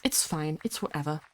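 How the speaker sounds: hushed, low, pretending not to care; mock resignation. Streamer shrugging off an uprooted childhood, mock resigned. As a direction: drop to a small, given-up voice.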